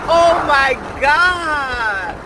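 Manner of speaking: slow, drawn-out wonder; awed. Real, not acted. Vlogger gazing at open land, slow awed oh my God. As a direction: breathe it out in amazement.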